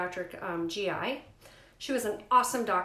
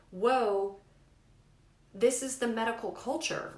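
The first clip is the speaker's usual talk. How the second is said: mock startled whoa; 2 semitones higher than usual. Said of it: "I'm not saying that at her".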